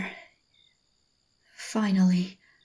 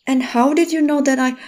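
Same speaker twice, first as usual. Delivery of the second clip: higher, louder and fast, caught off guard; flustered outburst; 4 semitones higher, 5 dB louder, faster than usual. Acted. To the man who found her, flustered fast outburst. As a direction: blurt it out, rattled.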